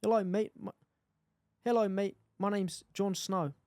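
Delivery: shaky-aim South African that slides toward New Zealand; attempted South African accent. Shown as a demonstration. Attempting Jon Snow as a South African, South African accent. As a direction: try a South African accent, restarting once. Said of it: "South African".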